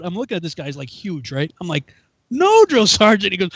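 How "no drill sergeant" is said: higher, louder, formal mock reply; recruit's refusal. Recruit refuses huge sergeant, stiff mock reply. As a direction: answer up like a dutiful private.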